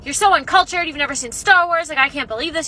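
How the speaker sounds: hammed-up offended complaint; retold indignation. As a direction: imitate an indignant date. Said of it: "really mad, and he was like".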